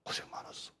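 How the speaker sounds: breathy whisper; soft whispered tenderness; whispered comfort. Acted. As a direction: whisper it to a weary son. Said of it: "이렇게 말해요".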